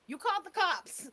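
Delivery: loud, slow, disbelieving yelp; mock outrage, drawn out; incredulous. Real, not acted. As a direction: act floored by the news. Mocking her call to police.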